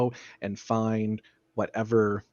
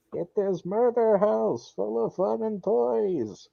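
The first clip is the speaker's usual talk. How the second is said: screaming stranger; 8 semitones higher, slower than usual. Acted. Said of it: "someone scream".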